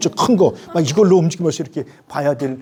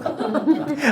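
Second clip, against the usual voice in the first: bursts into laughter; high burst of laughter; 10 semitones higher, 3 dB quieter than usual. Real, not acted. Laughs at own story. (크게 웃음)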